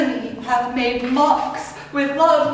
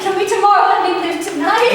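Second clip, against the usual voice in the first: frantic, higher plea; pleading; 4 semitones higher, faster than usual. Acted. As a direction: beg fast in panic. Desdemona pleads for her life.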